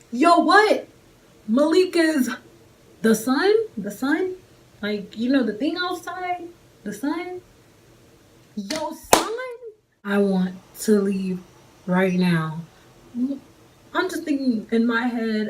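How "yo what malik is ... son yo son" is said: high, loud stunned yo what; shocked disbelief. Real, not acted. Telling viewers her shock at learning her date has a son, high and loud. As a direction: blurt it out in pure shock.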